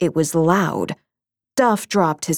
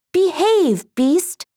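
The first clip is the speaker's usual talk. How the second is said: commanding princess; 11 semitones higher, slower than usual. Acted. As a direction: order the beast to obey.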